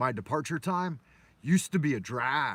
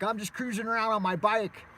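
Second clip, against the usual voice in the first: put-on higher, innocent little boy reply; innocent kid voice; 7 semitones higher than usual. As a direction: shrug it off like a clueless kid. Boy answers gangsters, retold.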